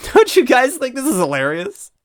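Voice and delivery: high, loud delighted; gleeful trickster. Acted. Toad to the heroes, gleeful. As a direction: invite them into the joke.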